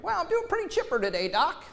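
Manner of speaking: high, quick, breezy cheerfulness; mock chipper. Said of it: "What do doctors want to hear?".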